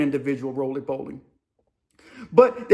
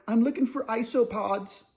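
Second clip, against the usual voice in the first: odd inmate voice; 3 semitones higher, 6 dB quieter than usual. Retold or imitated. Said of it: "That's how he talked".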